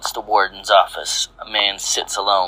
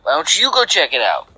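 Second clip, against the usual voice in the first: high-pitched, incredulous pushback; bewildered; 7 semitones higher than usual. A narrator's reading. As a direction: question the order in a high, baffled voice. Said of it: "looks at him bewildered and says".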